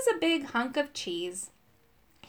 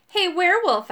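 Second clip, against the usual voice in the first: higher, louder taunting call; put-on meanness, pitched up; trying to sound mean; 7 semitones higher, 6 dB louder than usual. A narrator's reading. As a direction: call out with a mild mean edge. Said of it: "trying to sound mean".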